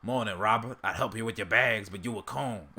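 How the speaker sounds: lightly put-on cartoon character voice; rough attempt at a character's greeting; Uncle Ruckus impression. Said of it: "I have to do the voice".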